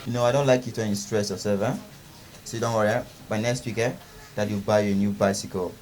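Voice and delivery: low, gentle reassurance; soothing father. Acted. Father soothing and promising his child.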